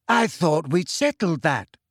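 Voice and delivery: slow, dreamy character voice; drawn-out, unruffled reply; maddeningly unbothered. A narrator's reading. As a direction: take your time, maddeningly serene. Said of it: "said Luna maddeningly".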